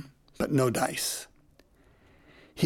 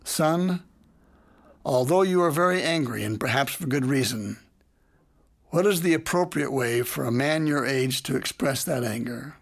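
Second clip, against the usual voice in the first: mildly calm. Retold or imitated. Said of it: "Then I said calmly".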